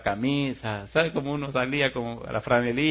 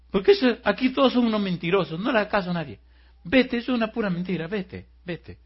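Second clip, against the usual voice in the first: high, loud, agitated mock-weeping protest; acted tearful outburst; 9 semitones higher, 5 dB louder than usual. Crying man sends the girl away, agitated wailing. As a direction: wail the denials, fading on the last words. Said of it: "empieza el tipo a llorar".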